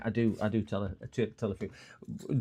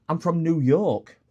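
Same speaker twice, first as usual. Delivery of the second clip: higher, louder, slow announcement; mock-earnest claim; 7 semitones higher, 6 dB louder, slower than usual. Customer winding up shop assistant, mock-earnest. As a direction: declare it slowly and loudly as a wind-up.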